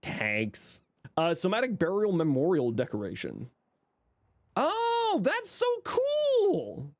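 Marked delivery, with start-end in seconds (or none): 4.5-6.9 excited. Real, not acted. Delighted reaction to a new decoration.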